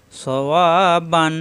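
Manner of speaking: "সওয়াবান" slowly with long middle "ওয়া"; one-alif madd. Shown as a demonstration. Teacher repeats madd word, slow drawn-out "সওয়াবান". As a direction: stretch the middle vowel of "সওয়াবান". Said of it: "এক আলিফ টান, মাদের হরফ".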